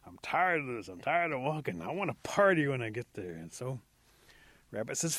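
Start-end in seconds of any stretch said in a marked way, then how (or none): 0.0-3.3 whiny, put-upon griping; grumbling complaint. Acted. Possum tired of walking demands a party, grumbling. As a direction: complain like you are owed something. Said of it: "still grumbling and complaining".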